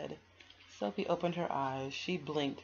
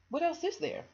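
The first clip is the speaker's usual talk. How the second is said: put-on puzzled girl; 13 semitones higher, 6 dB louder than usual.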